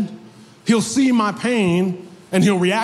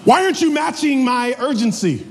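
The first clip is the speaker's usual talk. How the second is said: higher, laughing exasperated demand; exasperated plea; 6 semitones higher than usual. Retold or imitated. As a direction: press her to hurry, half laughing. Frustrated patient to receptionist.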